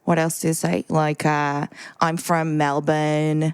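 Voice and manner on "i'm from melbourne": put-on slow, drawn-out Australian accent; a light Australian accent, slowly. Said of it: "the easiest one is Australian".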